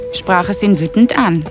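usual speaking voice

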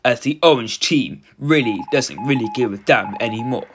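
measured robot-style commentary; robotic voice. Acted. Streamer narrating match to viewers, robotic voice. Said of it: "This robotic voice".

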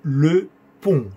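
"Le pont" with a nasal French o; slow "Le pont", vowel through the nose. Shown as a demonstration. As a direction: end "pont" on a nasal o, silent t. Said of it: "Sonido O nasal".

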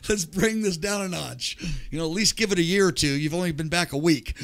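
a dad waving his hands, pleading to ease off; dad calming him. Retold or imitated.

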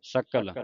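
ਸਕਲ as "sakal" with k; k sound. Shown as a demonstration. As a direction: restate ਸਕਲ with a clean k. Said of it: "ਕੱਕੇ ਦੇ ਨਾਲ".

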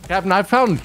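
lightly goofy pirate voice; a hint of a dopey pirate; silly voice. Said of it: "I don't know why that voice just came out of me".

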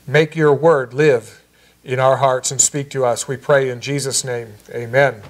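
steady, earnest spoken prayer. Acted. Pastor praying for the church, earnest prayer voice. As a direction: pray it to God over the congregation. Opening prayer before the sermon.

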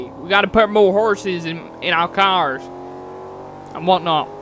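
bad American redneck accent. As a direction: lay on a hammy redneck accent. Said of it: "It's a terrible redneck accent".

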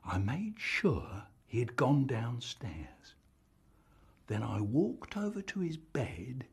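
hushed, breathy whisper. Acted. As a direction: whisper it secretly. Sneaking, unvoiced lines.

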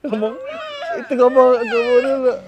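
loud urging. Real, not acted. Urging loudly, laughing.

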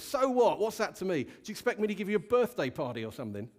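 rough retort. Retold or imitated. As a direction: toss it back like a brusque, unimpressed neighbour. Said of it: "replied to her quite roughly".

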